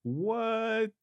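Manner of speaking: high, sharp disbelieving what; stunned what. Real, not acted. Host reacting in shock to the two-million salary, stunned disbelief. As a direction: gasp it out in disbelief.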